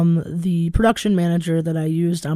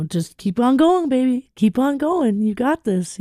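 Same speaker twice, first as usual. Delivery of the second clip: higher-pitched, lilting cheer-on; imitated encouragement; 7 semitones higher than usual. Host quoting late musician friend's encouragement, imitated encouraging voice. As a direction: coax them along like a supportive mentor. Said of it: "He was so encouraging".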